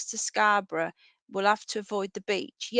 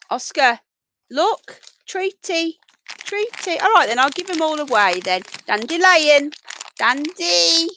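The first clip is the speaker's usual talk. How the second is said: very high, louder coaxing pet call; treat voice; 6 semitones higher, 7 dB louder than usual. Real, not acted. Coaxing the rabbit over with the high treat voice. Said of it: "this is the treat voice".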